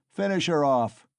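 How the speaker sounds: loud, high brutal yell; shouted. A narrator's reading. Mikolka urging himself on against the mare, shouting. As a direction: roar the order. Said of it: "shouted Mikolka".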